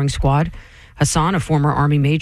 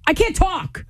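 mock flustered. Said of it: "And I'm like".

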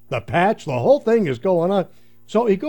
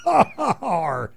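pirate laugh; slower than usual. Retold or imitated.

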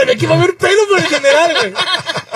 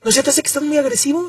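wife's mild reproach; 7 dB quieter than usual. Retold or imitated. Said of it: "mi vieja me dice".

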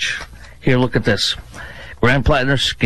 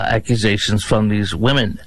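ordinary talk, nothing marked

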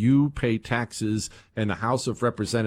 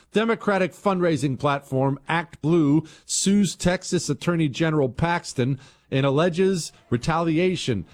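raised-pitch news headline delivery; headline read; 8 semitones higher, 4 dB louder than usual. Acted. Host reading listeners the next headline, raised announcer delivery.

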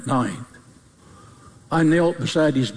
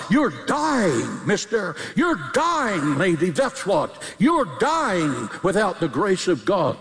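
urgent pulpit warning, pitch swooping on "dying"; emphatic sermon cadence; impassioned preaching; 2 semitones higher than usual. Real, not acted. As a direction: warn sinners with drawn-out emphasis.

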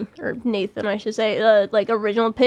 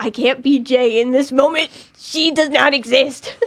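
insistent self-talk; 2 semitones higher, 4 dB louder than usual. Retold or imitated. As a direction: drive each word home, drawing out the end. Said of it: "so where I'm like".

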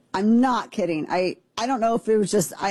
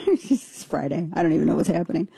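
usual speaking voice

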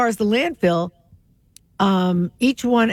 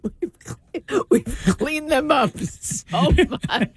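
mock British accent; 4 semitones higher, much slower than usual. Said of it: "If we give them British accents".

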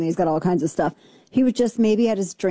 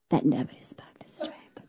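low, soft creaky whisper; mocking vocal fry; 7 semitones lower, 7 dB quieter than usual. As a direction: sink into exaggerated fry, almost voiceless. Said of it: "I can't stand the vocal fry".

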